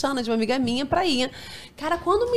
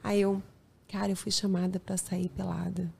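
hushed confession; 3 semitones lower, 10 dB quieter than usual. Retold or imitated. Fake confession to husband.

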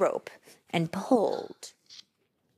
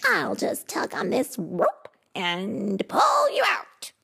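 bragging; 7 semitones higher than usual. Acted. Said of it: "he bragged".

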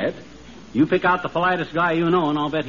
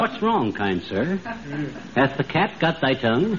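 hammy stage actor; 2 semitones lower, 4 dB quieter than usual. Acted. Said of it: "the way Sir Walter Raleigh talks".

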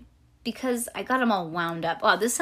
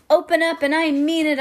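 louder, higher commanding voice; storybook yell; 8 semitones higher, 9 dB louder than usual. A narrator's reading. Girl hanging on a stuck bathroom door, yelling. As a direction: order the door open, raising your voice. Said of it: "I yelled".

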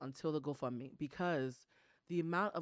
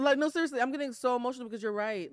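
fighting back tears; 6 semitones higher, 5 dB louder than usual. Real, not acted. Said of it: "I'm trying not to cry right now".

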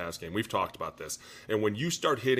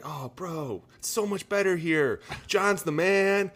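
higher and louder, hyped-up bro voice; mock laid-back teammate; 11 semitones higher, 7 dB louder than usual. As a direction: play the chill new teammate, pitched way up. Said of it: "they're like".

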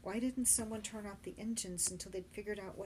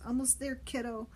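croaking; 5 semitones higher, 4 dB louder than usual. Acted. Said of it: "Benny croaked".

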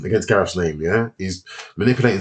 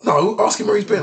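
high Welsh-lilt mimicry, much higher; high mock Welsh voice; mimicking the Welsh boys; 11 semitones higher than usual. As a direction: pitch it way up like the pushy Welsh lads. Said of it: "I'm like".

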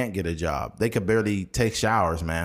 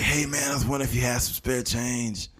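raspy panhandler voice; 2 semitones higher, 3 dB quieter than usual. Retold or imitated. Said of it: "same raspy voice".

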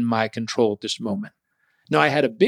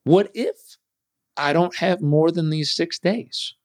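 higher, slow fearful worry; a hint of fearful doubt; slow, higher worried question; 4 semitones higher, slower than usual. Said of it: "the fear crept in".

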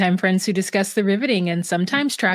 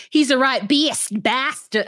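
attempted British accent, pitched higher; 5 semitones higher than usual. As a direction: redo the line as a mock Brit. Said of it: "It was meant to be British".

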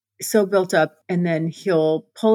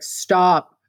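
lightly imitated deep voice; a hint of a man's deep command; deep male voice. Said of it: "he's got a real deep voice".

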